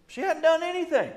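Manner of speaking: very high, squeaky exclamation; amused, incredulous squeal; comic protest. Retold or imitated. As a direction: protest her innocence in a high, laughing voice. Exclaiming over wife's innocence.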